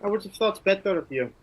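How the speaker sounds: looking down on him with scorn; scornful warrior. Acted. Brynjar scorns the Marquis.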